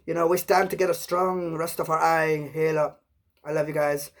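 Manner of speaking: lightly put-on Jamaican accent; a hint of Jamaican patois. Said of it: "I like to talk like one".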